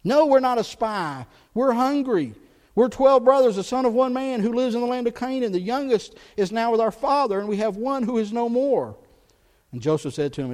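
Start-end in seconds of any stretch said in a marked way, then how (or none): 0.0-9.0 louder, higher pleading of the hungry brothers; a hint of pleading brothers. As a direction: plead your innocence to the governor. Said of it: "Joseph replaying the very words that his brothers said".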